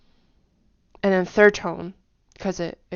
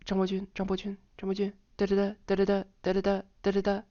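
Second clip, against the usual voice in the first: quick run of the name then da da da; fast drill of the name; faster than usual. Shown as a demonstration. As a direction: rattle it off fast.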